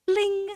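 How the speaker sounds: high, ringing "bling"; imitated chime. Imitating the read-along book's page-turn signal, chiming. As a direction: sing out a little page-turn bell. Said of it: "the satisfactory sound to know that you need to turn your page".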